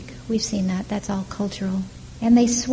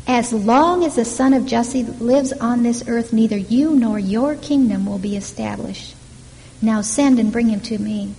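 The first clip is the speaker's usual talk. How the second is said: angry king; 4 dB louder than usual. Retold or imitated. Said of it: "Saul's anger flares up at Jonathan".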